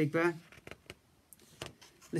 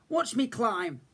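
little cub; 8 semitones higher, slower than usual. A narrator's reading. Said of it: "Little Bear said".

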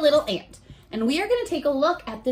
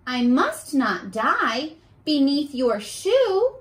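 ant's proud reply; 3 semitones higher, slower than usual. Acted. Ant answering the kid who wants to squish him, slow and earnest. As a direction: plead slowly and proudly. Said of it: "And the ant says".

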